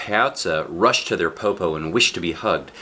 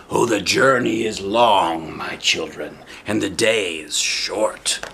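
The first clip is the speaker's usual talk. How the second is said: sly wolf voice. Acted. Wolf pretending to be grandmother, slow sly croon. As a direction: coax them like a sly old wolf.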